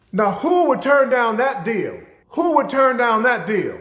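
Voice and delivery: high, loud, incredulous; baffled disbelief. Retold or imitated. Teacher recalling the man running off, loud and incredulous. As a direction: ask it as if the refusal makes no sense. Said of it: "And I'm like".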